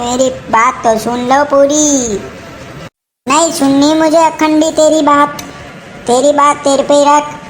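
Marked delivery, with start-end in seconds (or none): 0.0-2.2 put-on an old man wheedling gently.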